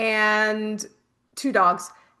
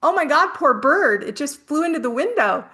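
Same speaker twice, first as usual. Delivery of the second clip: alarmed blurt; 4 semitones higher than usual. Retold or imitated. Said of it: "I go".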